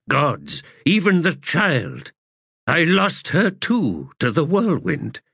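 high, grieving, anguished voice; despairing man. Acted. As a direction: plead in guilt and grief. Heboric despairs.

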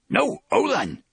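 high animal yap; yapping. A narrator's reading. Oy the animal begs Roland to stop, yapping. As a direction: yap the words like a small creature. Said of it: "Oy yaps".

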